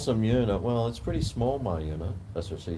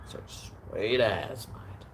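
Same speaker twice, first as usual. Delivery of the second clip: whispered aside; 4 dB quieter, much slower than usual. Retold or imitated. Wrapping up the retold deal.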